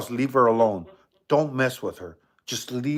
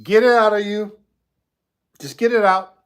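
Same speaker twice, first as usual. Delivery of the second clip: higher, louder demanding yell; 6 semitones higher, 6 dB louder than usual. Acted. Demanding the ghost finally speak, yelling. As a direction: shout at it to spit it out.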